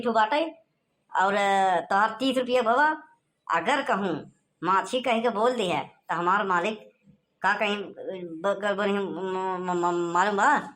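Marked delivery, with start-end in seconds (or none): 3.5-10.7 nervous stammer. Acted. Scared servant stammering about boss.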